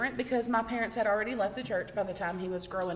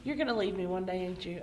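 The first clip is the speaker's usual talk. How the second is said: subdued, lower retold question; retold dead-serious question; 3 semitones lower than usual. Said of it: "looked me dead in my face".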